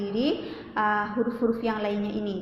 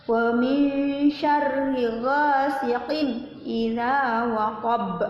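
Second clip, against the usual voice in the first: slow, drawn-out tajwid chant; Quran recitation; much slower than usual. Shown as a demonstration. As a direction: stretch each syllable in recitation. Recites verse three.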